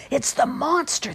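high, slow cry of fright; mock scream. A narrator's reading. Gatorman kids seeing a monster, mock screaming. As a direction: cry out in storybook terror. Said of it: "they screamed".

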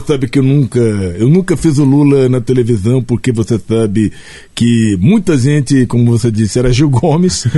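lightly voiced slow union leader; Lula impression. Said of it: "Olha, companheiro".

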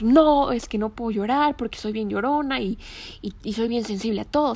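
imitating her own frantic self-reproach; hammed-up flustered complaint about crying; mock self-scolding. Retold self-scolding while crying.

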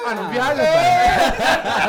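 slow, loud laughing refusal; laughing off the demand; laughing protest. Retold or imitated. Friend protests to the robber, slow and laughing.

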